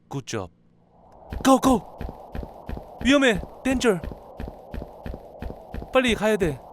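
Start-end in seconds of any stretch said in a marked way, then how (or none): 1.4-6.6 urgent shouting. Real, not acted. Escaping danger in car.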